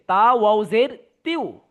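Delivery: তিউ with the ti gliding into a long w sound; spelled-out blend. Shown as a demonstration. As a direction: slowly spell it out, drawing তিউ into one glide. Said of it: "তা গিয়ে ওয়াওকে ধরছে". (তিউ, তি-এর সাথে ওয়াও মিলিয়ে টেনে উচ্চারণ)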